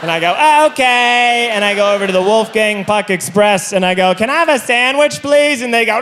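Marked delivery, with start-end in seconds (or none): 0.7-1.5 meek acceptance. Retold or imitated. 4.1-5.6 high, pleading little question; mock-pitiful polite plea; meek request. Meek passenger asks for food.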